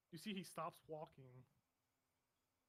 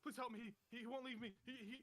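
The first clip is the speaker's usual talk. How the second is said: higher, pleading cry with halting repeats; desperate cry for help; 8 semitones higher, 4 dB louder than usual. Acted. Trapped echo cries out to the onlooker, desperate pleading. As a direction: beg for help, stumbling over the words. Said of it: "it cries out to you".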